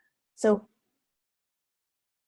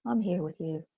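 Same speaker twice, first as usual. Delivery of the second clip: very kindly. Shown as a demonstration. Teacher saying kindly to her scared self. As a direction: say it like to a frightened friend. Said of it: "So I'm saying very kindly".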